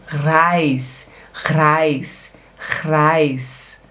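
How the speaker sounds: Reis with the R made in the throat; German R. Shown as a demonstration. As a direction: repeat "Reis" slowly with a guttural opening R. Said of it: "Aqui, ó, r". (Reis com R alemão na garganta)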